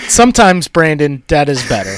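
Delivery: mock Maine accent tagline. Host turning down co-host with the tagline, mock Maine accent. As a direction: deliver the catchphrase in put-on Maine. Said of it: "use that fucking tired-ass tagline".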